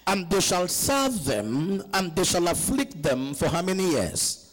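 slow, drawn-out scripture declamation; scripture reading. Acted. Preacher reads scripture to the congregation, slow scripture reading. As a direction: read the verse out slowly and deliberately.

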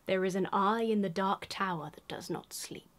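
eerie unvoiced whisper. Whispering card lore to viewers. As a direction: breathe it like a dark secret. Dramatic flavour text read aloud.

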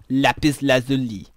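a lightly put-on French "Lapis lazuli"; French accent. Shown as a demonstration. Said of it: "in a French accent".

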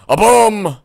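shrill high cartoon shout; cartoon boom. Gamer voicing a silly explosion, high squeal.

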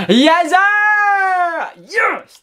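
high, loud cheer of delight; excited. Real, not acted. Gamer cheering an inform pull, thrilled yell. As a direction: punch the air with a yes.

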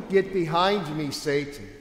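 a firm, severe command; harsh rebuke. Acted. Jesus reacts to Peter's words with a harsh rebuke. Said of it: "Jesus' severe reaction, right? It's harsh".

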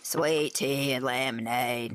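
slow, failed southern drawl that drifts Boston and Brooklyn; a mock southern accent that comes out Boston and Brooklyn. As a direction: try a southern drawl and miss. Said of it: "say that with a nice southern drawl".

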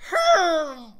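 high loud villager grunt; villager yes grunt. Acted. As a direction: bark it like a villager. Absolutely perfect.

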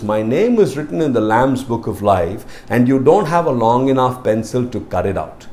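calmly telling the guard; calm reply. Retold or imitated. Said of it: "very calmly tells the man".

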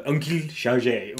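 slow, hammed-up French accent. Player tries the uncle's name, mock French accent. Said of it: "Oh, that's an offensive accent".

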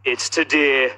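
record a phone greeting like the show; answerphone message in announcer voice. Pretend. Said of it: "put your phones next to the T V and record".

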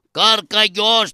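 slow, stretched call of the name; drawn-out mock-grieving call; mourning cry. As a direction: call out to the dead, drawing out the name. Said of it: "Τι φωνάζεις, με ξεκούφανες".

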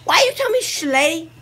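high, loud slurred-out excitement; forgetting to keep it down; too loud. Real, not acted. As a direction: blurt it out far too loudly. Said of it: "You have to be quiet".

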